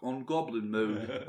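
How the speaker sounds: slow, hammed-up British accent; bad British accent. Mocking British chaps on the word of the year, in a bad British accent. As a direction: drag out goblin mode like a mock British chap. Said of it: "That was a terrible accent".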